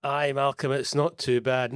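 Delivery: Scottish greeting as an Aussie's party piece; put-on Scottish accent. Aussie guest asked to show his Scottish, mock Scottish accent. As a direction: attempt a Scottish accent, drawn out. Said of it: "in your best Scottish accent".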